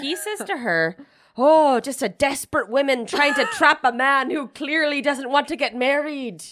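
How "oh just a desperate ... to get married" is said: slow, drawn-out put-on Irish accent. Retelling a line he says to her, imitating an Irish accent. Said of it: "you're welcome for my Irish accent".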